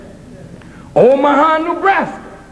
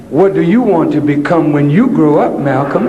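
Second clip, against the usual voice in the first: teacher voice; 11 semitones lower than usual. Retold or imitated. Teacher voiced in retold story.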